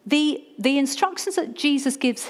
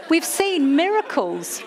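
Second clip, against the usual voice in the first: laughing, pitched up; 7 semitones higher, slower than usual. Real, not acted. Pastor still laughing as she tells the church. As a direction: laugh the words out slow and high.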